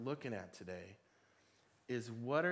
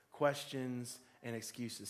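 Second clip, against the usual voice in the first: slow emphasis; slower than usual. Shown as a demonstration. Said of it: "Say that with me".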